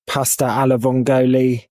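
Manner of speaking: "Pasta alla vongole" said with a clumsy English-accented Italian; "Pasta alla vongole" in a hammy, anglicised Italian; bad Italian pronunciation. Real, not acted. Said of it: "I love the pronunciation".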